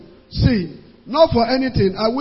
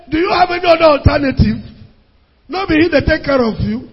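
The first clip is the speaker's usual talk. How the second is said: firm question; 5 semitones higher, 3 dB louder, faster than usual. Retold or imitated. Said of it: "I will say".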